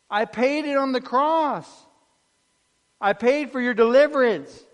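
a saviour reminding you of the price; pleading Jesus. Acted.

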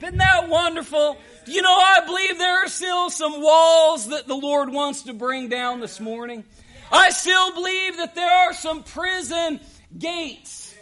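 forceful pulpit exhortation; rousing preaching. Real, not acted. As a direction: preach with conviction to stir the congregation.

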